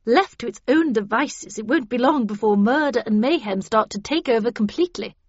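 loud, forceful lecture; cold, stern warning. A narrator's reading. Havisham warns the characters to contain their anger, sternly. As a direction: lecture the group severely, stressing each danger. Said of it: "said Havisham coldly".

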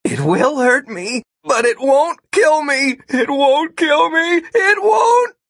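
climbing to a high scream; terrified self-reassurance, shouted at the end; panicked mantra. A narrator's reading. Corrected mantra as he plummets.

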